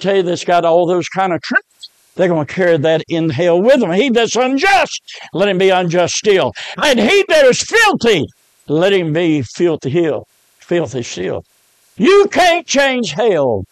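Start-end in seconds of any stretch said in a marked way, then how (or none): 3.9-13.6 forceful preacher, pitch jumping up then settling; impassioned sermon cadence; preaching. Acted. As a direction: drive it home from the pulpit.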